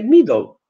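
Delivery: "middle" with a tense Polish i, "meedle"; Polish vowel. Shown as a demonstration. Teacher showing the Polish mistake in "middle". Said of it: "they say".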